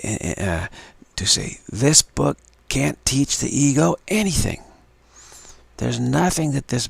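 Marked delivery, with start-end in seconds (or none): 1.7-4.6 loud, high, stressing every word of "This book can't teach the ego anything"; emphatic. Shown as a demonstration. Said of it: "you can use emphasis on this first part".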